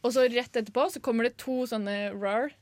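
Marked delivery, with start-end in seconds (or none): 2.2-2.5 half-hearted mock roar; mild imitated roar. Host previewing the helium alligator sound, mild imitated roar. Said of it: "sånne brøl".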